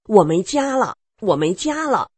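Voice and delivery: like he has gone mad, blurt it out; frantic outburst. Retold or imitated. Son storming off, crying he has no home, loud and frantic. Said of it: "就像疯了一样".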